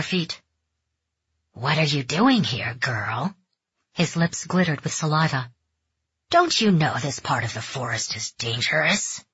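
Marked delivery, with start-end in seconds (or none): 1.5-3.4 leering man. Acted. Leering stranger questions Mariko. 6.3-9.2 menacing man. Acted. Leering stranger warns Mariko.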